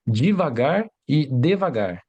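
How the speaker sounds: first "devagar" as jee-va-GAR, second "devagar" as deh-va-GAR; two close pronunciations. Shown as a demonstration. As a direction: contrast "devagar" with a JI start against "devagar" with a clear DE, slowly. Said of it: "se escreve devagar".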